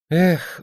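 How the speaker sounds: high sighing eh; rueful sigh. Acted. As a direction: let it out in a sigh. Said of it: "вздохнул Анатолий". (вздох «эх»)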